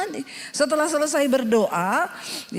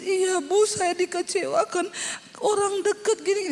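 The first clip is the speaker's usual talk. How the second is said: tearful complaint; 5 semitones higher than usual. Retold or imitated. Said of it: "wah dia nangis".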